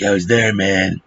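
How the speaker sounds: throat-straining impression of a movie veteran; imitating an actor's put-on voice. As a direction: mimic an over-the-top movie soldier. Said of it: "I can't do that voice".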